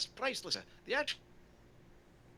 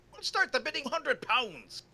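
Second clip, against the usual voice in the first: auctioneer; 6 semitones higher, 6 dB louder, slower than usual. Acted. Auctioneer opens the bidding.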